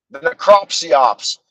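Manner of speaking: The necropsyops, slow and weighty; coined word again. Shown as a demonstration. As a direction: land necropsyops slowly. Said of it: "That's what I called it".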